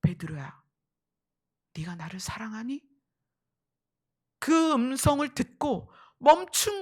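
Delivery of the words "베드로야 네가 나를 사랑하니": low, gentle question; Jesus. Retold or imitated. Jesus questions Peter who denied him, gently. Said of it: "예수님의 질문을 듣고".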